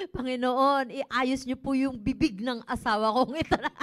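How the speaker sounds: loud pointed prayer. Retold or imitated. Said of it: "mas lumakas yung boses niya, pero nananalangin".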